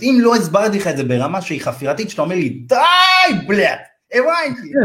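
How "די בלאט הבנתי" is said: much higher, mock fed-up cry; mock exasperation. Client telling the over-explaining agent to stop, mock exasperated. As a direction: play the client who has heard enough.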